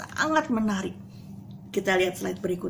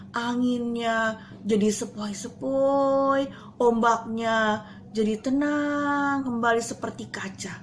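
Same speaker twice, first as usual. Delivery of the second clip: slow soothing narration; slow calm storytelling; slower than usual. A narrator's reading. Teacher tells children the lake grew calm, slow and soothing. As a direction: draw it out peacefully.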